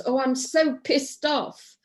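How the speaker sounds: slow, mock-fed-up complaint; acted frustration. Shown as a demonstration. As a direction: lean into the frustration for the demo. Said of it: "how are you feeling?".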